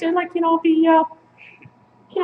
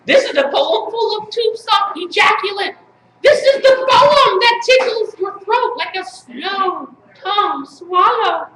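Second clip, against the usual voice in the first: emphatic, chanted spoken-word delivery; incantatory slam-poem reading; poetry recital; slower than usual. Acted. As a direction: declaim each line as a mock-serious poet.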